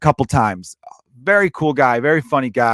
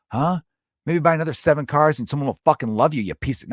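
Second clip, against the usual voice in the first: mock rant; 3 semitones higher than usual. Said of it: "going off on social media being like".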